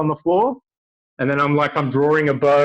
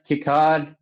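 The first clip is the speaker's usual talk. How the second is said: holding breath; 2 semitones higher than usual. Real, not acted. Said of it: "hold breath".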